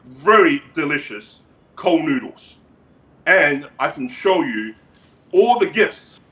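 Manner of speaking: measured, halting dictator voice; North Korean leader character. Acted. Leader boasts about noodles and gifts, measured dictator voice. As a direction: boast in deliberate, accented phrases.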